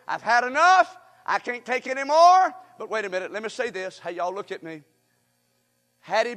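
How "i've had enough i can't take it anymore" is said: louder, acted-out exasperation; mildly anguished outburst; fed-up despair. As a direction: complain loudly, at the end of endurance. Paraphrases Elijah's despair.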